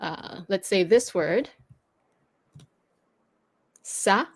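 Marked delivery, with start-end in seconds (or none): 3.8-4.2 sa starting with an S, not a K; the cedilla sound, a clean S in sa; soft S sound. Shown as a demonstration. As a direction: say sa as French "sah". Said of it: "makes it like a S sound".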